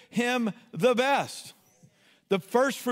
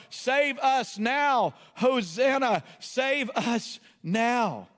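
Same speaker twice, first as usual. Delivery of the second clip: crying out; 3 semitones higher, much slower than usual. Acted. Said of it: "began to cry out".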